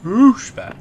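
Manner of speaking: high shouted pushback; loud exclamation. Real, not acted. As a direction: yell the word out. Shouting the word with mock alarm.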